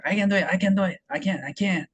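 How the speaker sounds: "I can do it" high-pitched, swallowed toward the throat; "I can" repeated high with a throat-placed k; swallowed throat sound. Shown as a demonstration. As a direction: eat the sound in "can", far back. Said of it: "목구멍 쪽에 가깝잖아요".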